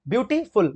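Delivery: ब्यूटीफुल split as ब्यूटी, then फुल; broken into syllables. Shown as a demonstration. Teacher showing students the break, ब्यूटीफुल said in parts. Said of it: "देखो break हो रहा है ना".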